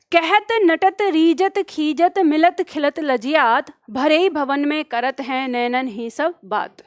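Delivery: slow, measured reading of a couplet; poem recitation. Acted. Teacher reciting a couplet to her class, slow measured recitation. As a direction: lay out each verb of the couplet slowly.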